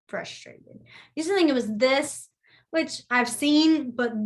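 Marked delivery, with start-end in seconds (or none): 0.1-0.8 soft unvoiced word while signing; teacher whispering the sign word; whispered repeat. Shown as a demonstration. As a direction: mouth it as the sign is shown.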